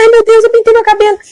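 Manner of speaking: put-on high, pleading old woman's voice; anxious old lady. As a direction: confess nervously like a frail old lady. Old woman hand on head. (velhinha aflita, voz aguda)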